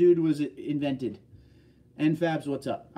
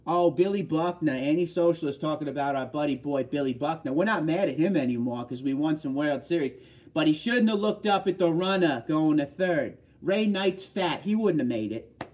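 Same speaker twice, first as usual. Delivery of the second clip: put-on Boston accent; Boston Red Sox fan. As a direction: grumble like a Boston fan reliving an old error. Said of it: "what any Red Sox fan probably would have said".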